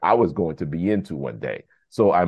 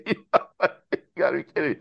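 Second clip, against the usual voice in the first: laughing disbelief; 8 semitones higher, slower than usual. Real, not acted. Laughing at unbelievable coincidence.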